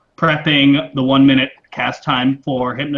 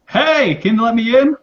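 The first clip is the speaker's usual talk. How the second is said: higher-pitched call to a stranger; 9 semitones higher, 4 dB louder than usual. Acted. Venris calling to the guard on the guild roof, calling out. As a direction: hail someone up on a roof.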